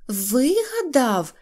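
high, slow outraged question; indignant cry. Acted. Neznayko protesting to the crowd, slow mock outrage. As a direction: throw the word back, stretched. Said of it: "закричав Незнайко".

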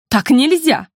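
outraged sister objecting; mildly voiced indignation; indignant. A narrator's reading. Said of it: "возмутилась Макико".

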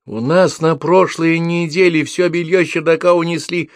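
put-on high shrill-free girl's shout, slow. A narrator's reading. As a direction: call it out from the crowd. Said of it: "выкрикнула девушка". (девушка выкрикивает из толпы)

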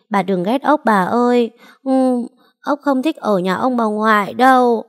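put-on sick boy pleads with grandma through sobs; sobbing child. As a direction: plead with grandma while bawling. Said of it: "Thằng bé cứ thế khóc tu tu".

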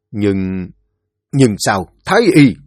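stumble, then burst out in alarm; alarmed question. Acted. Quan hoảng hỏi thái y. (ngập ngừng rồi thốt lên hoảng hốt)

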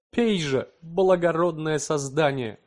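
high, slow exclamation of rapture; rapturous wonder. A narrator's reading. Husband hands wife the potion: high rapturous cry. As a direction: cry out in awed delight. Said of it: "в порыве восторженного удивления".

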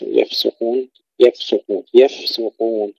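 يفسقون with a clearly sounded, unvowelled fa; careful recitation of يفسقون, fa fully audible. Shown as a demonstration. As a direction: hold the f distinct before the s in يفسقون. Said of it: "ننتبه إلى إظهار الفاء".

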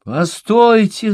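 very high, loud, slow cry; girl crying out high and loud to halt them. A narrator's reading. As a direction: call out to stop them, too late. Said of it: "запоздало крикнула Иовин".

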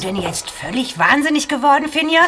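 outraged. Acted. Vorwurf an Finja.

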